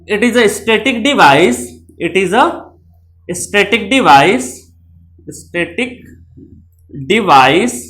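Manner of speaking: very slow, word by word; spaced-out key phrase; slow dictation. Shown as a demonstration. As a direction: dictate it for notes. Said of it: "dictating definition".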